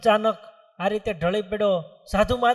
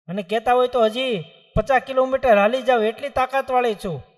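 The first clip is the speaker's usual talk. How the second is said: put-on higher, louder, boastful old woman; feisty old mother; 4 semitones higher, 5 dB louder than usual. Old mother refusing the saints, feisty and boastful. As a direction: insist she's far from old.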